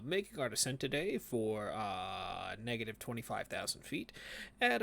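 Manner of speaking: calm airline pilot intercom voice; captain announcement. Pretend. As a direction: address the cabin like a captain. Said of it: "next we're gonna hear".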